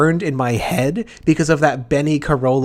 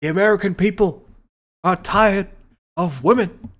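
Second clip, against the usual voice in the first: mock pundit; 4 semitones higher than usual.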